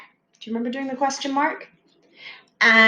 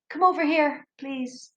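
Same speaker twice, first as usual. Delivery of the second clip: softer, polite ask; polite request; 4 semitones higher, 4 dB quieter than usual. Shown as a demonstration. Teacher contrasting a polite command with the shouted one. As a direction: ask nicely, trailing off. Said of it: "it's the tone".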